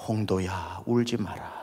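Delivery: soft, low reassuring voice; gentle comfort. Retold or imitated. God comforting the weeping pastor, soft and low. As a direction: console him tenderly.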